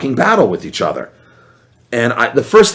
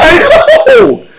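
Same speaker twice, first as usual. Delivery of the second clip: laughing agreement; 9 dB louder than usual. Real, not acted.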